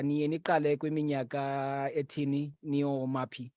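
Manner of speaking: normal talking voice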